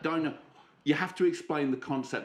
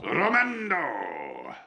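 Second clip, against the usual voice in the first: long drawn-out rolled-r imitation; Romando, imitated; much slower than usual. Co-host mimics Romando, slow growled name. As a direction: mimic the seducer, stretching the name out. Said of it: "you got that "ooh" in your voice".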